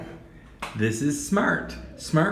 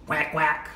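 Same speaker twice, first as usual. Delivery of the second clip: duck quack; 2 semitones lower, 5 dB quieter than usual. Shown as a demonstration. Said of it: "What is that?".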